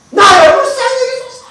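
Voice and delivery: high, loud plea for mercy. Acted. Beggar pushing through people to reach Jesus, shouting high. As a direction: cry out desperately over the crowd. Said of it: "이제 소리를 높여서".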